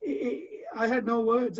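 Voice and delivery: real emotion breaking through; words cut short by a sob; choked up. Real, not acted. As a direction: voice catching on tears. Recalling his guru's kind call.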